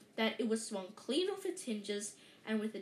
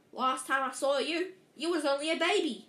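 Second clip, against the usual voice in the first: giant voice; 4 semitones higher, 6 dB louder than usual. A narrator's reading. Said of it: "said the giant".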